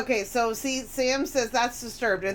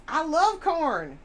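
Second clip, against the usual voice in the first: higher, louder, slow drawn-out love; gushing fan; 7 semitones higher, 6 dB louder, slower than usual. Acted. Reading Sam's chat as a gushing fan of a band. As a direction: gush over the band.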